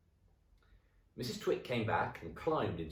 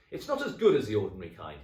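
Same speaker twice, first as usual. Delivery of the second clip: mouth full; 2 semitones higher, 9 dB louder, faster than usual. Acted. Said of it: "talking with his mouth full".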